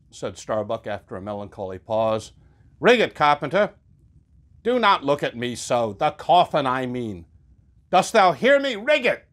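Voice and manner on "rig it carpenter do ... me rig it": stern orders. Acted. Starbuck ordering the carpenter.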